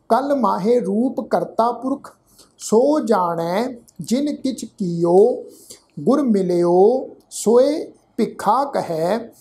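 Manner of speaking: slow, deliberate chanting recitation; scripture recitation. Shown as a demonstration. Teacher recites Gurbani slowly to students. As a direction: lay out every syllable carefully.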